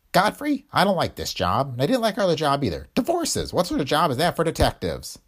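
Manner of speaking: put-on a cranky old coot griping about the job; grumbling old Willie. A narrator's reading.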